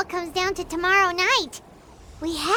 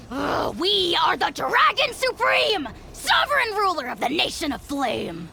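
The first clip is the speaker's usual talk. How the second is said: indignant proclamation. Acted. Dragon lord insulted, proclaims title.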